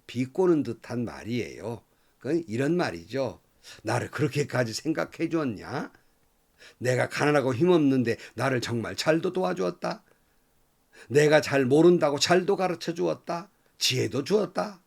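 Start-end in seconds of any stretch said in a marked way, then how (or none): 3.8-14.8 mock gratitude, rising toward the end; sarcastic. Job mocking his friends' help, sarcastic. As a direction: thank them with a biting sneer. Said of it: "이렇게 비꼬는 말이에요".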